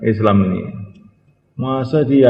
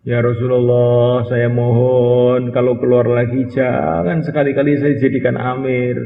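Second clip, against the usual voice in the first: humble plea; 2 semitones higher, slower than usual. Retold or imitated. Companion pleads to the Prophet.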